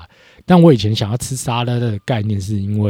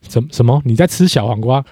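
retold startled double-take, slightly raised; imitated disbelief; 3 semitones higher, 4 dB louder than usual. Girlfriend catching him eating cucumber, imitated disbelief. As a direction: stammer into a mock-incredulous question. 女朋友看他吃小黄瓜很惊讶.

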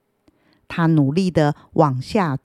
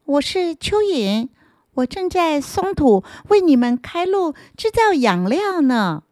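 kind earthworm voice; 9 semitones higher than usual. Acted. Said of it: "好和善的声音".

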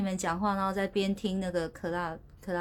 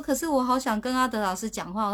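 pleading; 4 semitones higher than usual. Retold or imitated. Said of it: "我说".

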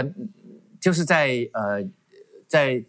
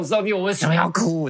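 mildly raised, high-pitched plea; higher voice, mock-anguished question; retold loud cry; 5 semitones higher than usual. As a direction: imitate calling out to God without really shouting. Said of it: "我就大声喊".

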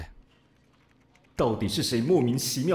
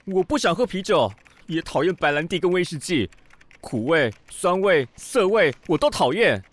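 fussy rant; 4 dB louder than usual. Acted. Ranting about drinks he hates.

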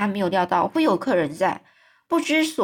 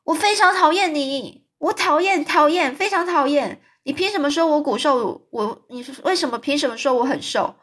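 higher, louder angry outburst; furious shouting; 6 semitones higher, 3 dB louder than usual. Acted. Anne yelling at Mrs Lynde for mocking her, angry and higher. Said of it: "疯狂地喊着说".

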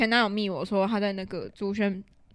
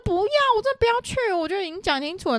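imitating near tears; 9 semitones higher than usual. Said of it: "他就已经快哭了".

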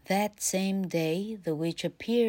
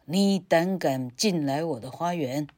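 louder furious witch; angry witch; 4 dB louder than usual. Acted. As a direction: scold like a witch. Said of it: "女巫说".

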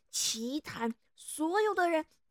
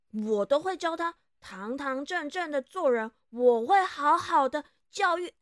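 indignant wife, rising louder; angry; 4 dB louder than usual. Acted. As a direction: snap back in defense of her child. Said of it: "便生气的瞪大眼睛". (生气地反驳)

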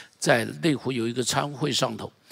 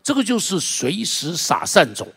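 slow emphasis; 5 semitones higher than usual. Real, not acted.

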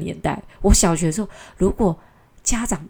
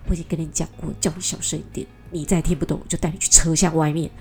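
acted firm scolding, building in volume; a mild imitation of a mother's stern warning. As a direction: lay down the law to a child, controlled. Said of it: "就很严厉的跟他讲说".

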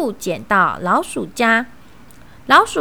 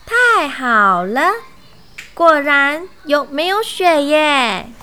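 drawn-out, louder cry of relief; delighted; 3 semitones higher, 4 dB louder than usual. Acted. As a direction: cheer with happy surprise. Fox finds snow-free strawberry patch.

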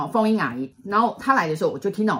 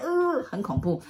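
much higher, slow, spooked little voice; mock scared; 10 semitones higher, slower than usual. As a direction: shrink into the words like hiding under a blanket. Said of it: "大姐每次的表情就这样".

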